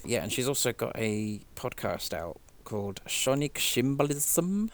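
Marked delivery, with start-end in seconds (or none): 3.1-4.7 a light put-on Icelandic lilt on the title; imitating an Icelandic singer's accent, hinted; impression of an Icelandic singer. To a friend, a light Icelandic singer's accent. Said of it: "You're nailing it".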